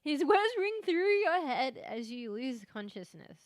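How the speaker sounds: slow, eerie narrator imitation; slow creepy narrator voice. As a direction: read it slow and spooky, mock-eerie. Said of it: "it goes again".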